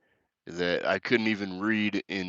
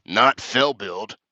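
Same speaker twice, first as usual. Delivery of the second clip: "Not fell build" said very slowly and louder, each word hit; slow emphatic quote; 2 semitones higher, 6 dB louder, much slower than usual. Retold or imitated. Quoting Sherry's odd comment to Austin, slow and weighty.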